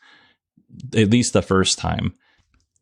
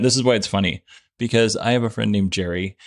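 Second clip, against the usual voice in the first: normal talking voice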